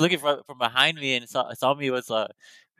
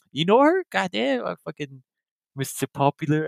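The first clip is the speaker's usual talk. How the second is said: mock impressed friends; 6 semitones higher than usual.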